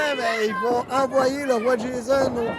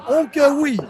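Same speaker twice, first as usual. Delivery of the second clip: hyped catchphrase; 3 semitones higher, 5 dB louder than usual. Acted. Live wrestling play-by-play.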